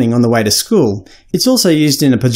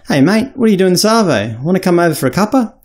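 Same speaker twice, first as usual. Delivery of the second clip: broad Aussie slang; 6 semitones higher than usual. Shown as a demonstration. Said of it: "put on your Aussie accent".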